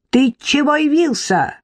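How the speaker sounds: high, angry challenge; pouncing on him. Acted. Irka attacking her drunk husband, high angry snap. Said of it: "набросилась на мужа Ирка".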